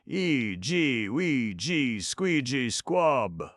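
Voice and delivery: high, loud nonsense-chant shout; defiant shout. A narrator's reading. Jumping on the basket, shouted defiant chant. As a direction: stamp and yell the charm. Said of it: "shouted defiantly".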